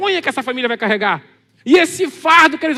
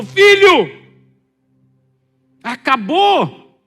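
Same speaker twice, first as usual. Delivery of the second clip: grito agudo e forte, depois arrastado; pânico; 4 semitones higher, 7 dB louder, much slower than usual. Acted. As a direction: chame o filho em desespero, lento no fim. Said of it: "um pânico na entonação". (mãe em pânico avisando o filho)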